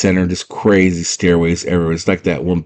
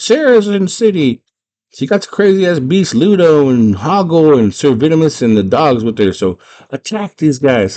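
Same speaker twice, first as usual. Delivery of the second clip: high, urgent goblin announcement; goblin alert; 8 semitones higher, 3 dB louder than usual. Retold or imitated. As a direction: raise the alarm in a high voice, slowing at the end. Goblin alarm spreads through city.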